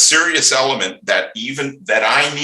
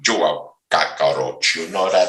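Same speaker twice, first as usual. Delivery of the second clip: Scarface impression; 4 semitones lower than usual. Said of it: "I'm trying to think of a Scarface".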